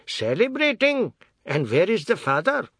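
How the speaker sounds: high, loud indignant outburst; indignant father. A narrator's reading. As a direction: demand it, affronted. Father demands to see son.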